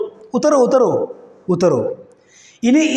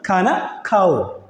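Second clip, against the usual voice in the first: ഖാന ഖാവോ said again slowly, each word drawn out; slow it down so students catch ഖാന ഖാവോ; slow repeat; 3 semitones lower, 3 dB quieter, slower than usual. Shown as a demonstration. Teacher repeats ഖാന ഖാവോ slowly for the class. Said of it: "എന്താണ്?".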